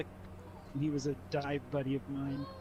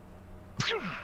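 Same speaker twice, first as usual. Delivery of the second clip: spewing vomit noise; mock throw-up sound effect; imitated projectile vomit; 8 semitones higher than usual. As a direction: mimic a sudden spray of puke. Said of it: "she just went, like".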